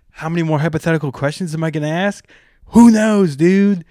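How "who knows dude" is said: high, loud rhetorical shout; hyped. Acted. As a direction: throw it out like a hype man.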